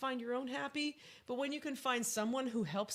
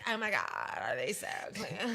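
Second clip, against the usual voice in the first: mock fussy guy; 3 semitones lower than usual. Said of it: "And he's all like".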